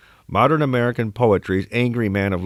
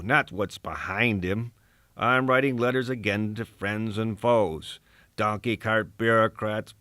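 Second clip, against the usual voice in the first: put-on combative old poet, more subdued now; Ezra Pound; 2 semitones higher, 3 dB quieter than usual. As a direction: deliver the soliloquy softer, as if musing alone. Soliloquy in Pound's voice continues, softer.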